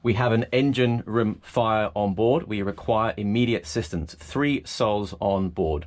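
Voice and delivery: slow, spaced-out radio readout; slow radio call. Shown as a demonstration. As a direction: read each digit slowly for the coast guard. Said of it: "You would say three nine degrees".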